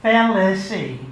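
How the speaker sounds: prissy, precise correction; mincingly correcting the narrator's pronunciation. Retold or imitated. To the narrator, a mincing correction. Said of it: "she mincingly corrected".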